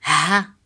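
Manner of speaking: "Ha" with a light breath of H; short "Ha", H as in house; English-style H. Shown as a demonstration. Teacher drilling Arabic ha, plain English H. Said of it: "Like in house".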